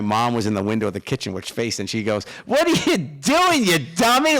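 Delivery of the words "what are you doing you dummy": high, loud, slow mock scolding mom. Mom calling from the kitchen window, high mock scolding. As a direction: tease him like an exasperated mom.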